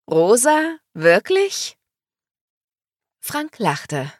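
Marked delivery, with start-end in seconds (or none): 0.1-1.8 loud, rising, incredulous questions; snorting disbelief. A narrator's reading. Woman snorts at pink tissue paper in her gift, incredulous. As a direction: scoff in raised pitch. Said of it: "Sie schnaubte".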